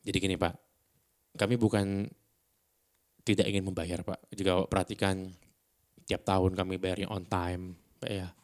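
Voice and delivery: measured late-night DJ negotiation; composed, even pleading with gaps; calm. Shown as a demonstration. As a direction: reason with the landlord calmly, leaving pauses. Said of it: "Tenang gitu loh".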